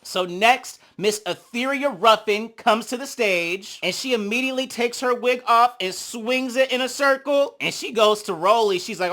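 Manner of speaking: normal talking voice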